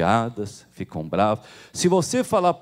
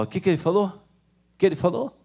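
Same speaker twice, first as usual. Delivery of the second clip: mother asking; 6 semitones higher than usual. Acted. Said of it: "Ela falou".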